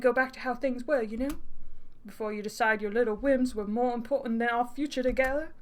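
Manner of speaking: cajoling, badly faked British accent; amateur British accent, coaxing. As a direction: wheedle in a dodgy British accent. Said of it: "it's 'cause it's so bad".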